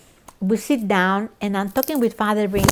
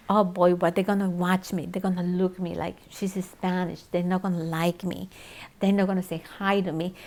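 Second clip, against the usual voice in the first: retold worried thought; 2 semitones lower, 6 dB quieter than usual. Newcomer dreading her first service, worrying quietly. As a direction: softly voice your own past misgivings.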